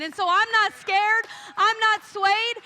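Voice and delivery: defiant. Acted. David defiant to Saul.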